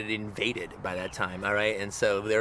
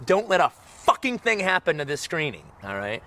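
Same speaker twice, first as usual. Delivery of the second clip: mock threat; 5 semitones higher than usual. Warning the projectionist before screening.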